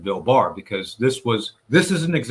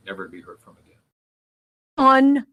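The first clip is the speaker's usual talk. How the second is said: ominous; 8 dB louder, slower than usual. Real, not acted. Dramatic ending of the story.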